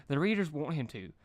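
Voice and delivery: frantic high Pinkie rant; Pinkie escalating. Acted. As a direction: rattle off worse and worse names. Pinkie listing fears.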